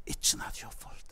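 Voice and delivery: breathed unvoiced, very soft; whisper. Therapist whispering it's not your fault to the boy. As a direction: whisper it as the last word.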